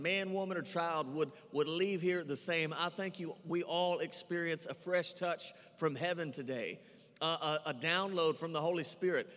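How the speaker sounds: earnest spoken prayer over the church. Acted. Pastor praying over his congregation, earnest prayer. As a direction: pray it out steadily for the people.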